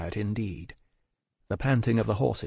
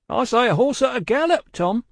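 high, raised voice of alarm; urgent correction; 13 semitones higher, 5 dB louder than usual. Acted. Guard to coachman as a horse nears, urgent call. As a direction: correct him urgently, calling up.

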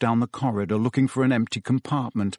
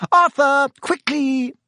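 high, loud shout to a husband; frantic high-pitched call; urgent cry; 14 semitones higher, 6 dB louder, slower than usual. A narrator's reading. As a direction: cry out to hurry him. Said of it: "cried Missus Weasley".

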